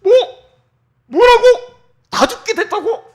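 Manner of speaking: very high, loud outraged shouts; a king roaring at the news of the plot; furious king. Acted. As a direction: explode in disbelief and rage. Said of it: "왕이 막 화가 나가지고".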